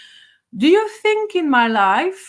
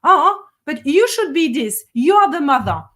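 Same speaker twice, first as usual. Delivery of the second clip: mocking kids' criticism; 3 semitones higher, 5 dB louder than usual. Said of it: "trying to enslave me by saying".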